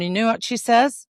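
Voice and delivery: ordinary delivery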